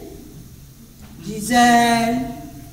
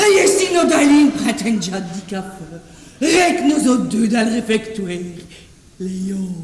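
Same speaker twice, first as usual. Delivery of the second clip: sultry voice; 4 semitones lower, faster than usual. Shown as a demonstration. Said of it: "une voix langoureuse".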